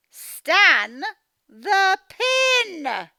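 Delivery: loud, high call to Stan; mum shouting. Acted. Mum yelling at Stan about the pin. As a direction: shout his name in alarm.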